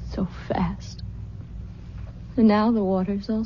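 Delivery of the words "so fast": whisper. Acted. Withdrawn girl watches tide.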